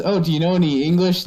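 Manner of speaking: high, fast, coaxing; mock teasing question. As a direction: tease the kids with it. Friend quizzing Korean kids.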